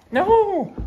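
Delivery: high, loud sudden no; sharp no. Real, not acted. Owner stopping dog breaking the stay, sharp loud no. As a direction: stop the dog mid-move.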